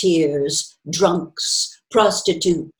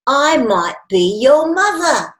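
sappy; 7 semitones higher, 5 dB louder than usual. A narrator's reading. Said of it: "she added sentimentally".

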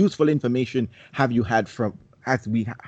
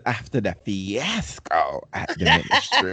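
lightly voiced audiobook narrator, a touch lower; Jim Dale; 5 semitones lower than usual. Reader imitating the audiobook narrator, lightly and lower. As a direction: mimic the famous reading, lightly. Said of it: "Jim Dale said".

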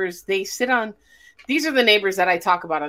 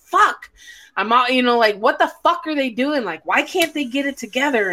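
imitated exasperated dad, pitched up; mad dad; 3 semitones higher than usual. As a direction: grumble at the team like a fed-up fan. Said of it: "he'd get mad".

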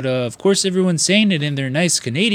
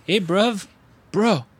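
pitched-up mock New Zealand slang; imitated New Zealand accent; 7 semitones higher, slower than usual. Fan quoting a New Zealand movie, imitated New Zealand accent. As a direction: imitate a Kiwi film character's greeting. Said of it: "bruv and bro that, you know, they would say".

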